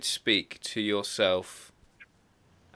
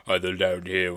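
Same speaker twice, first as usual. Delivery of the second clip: low, held-down larynx voice; 3 semitones lower than usual. Shown as a demonstration. Host trying the exercise for listeners at home, low larynx. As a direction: drop the larynx and talk from down there. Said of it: "say a few words with your larynx".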